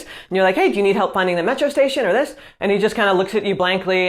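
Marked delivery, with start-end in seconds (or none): 0.5-2.4 quick, everyday native-speed English; regular pace. Retold or imitated. Rushed commuter answering a lost tourist at regular speed. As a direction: rattle it off like a local in a hurry. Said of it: "regular pace".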